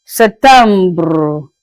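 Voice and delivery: Septembre with French vowels and a rolled ending; French pronunciation. Shown as a demonstration. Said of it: "to pronounce it as septembre".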